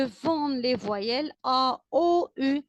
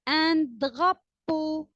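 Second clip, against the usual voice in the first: slow model word; 4 semitones higher, slower than usual. Shown as a demonstration. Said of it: "teacher models a word to repeat".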